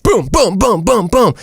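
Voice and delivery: high-pitched string of "boom" noises; rapid-fire booms. Retold or imitated. Host showing how rushed the movie felt, high booms. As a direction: punch out booms one after another.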